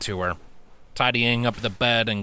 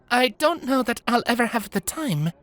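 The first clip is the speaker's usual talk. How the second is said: wry confession; 13 semitones higher than usual. Acted. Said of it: "she confessed with a lopsided smile".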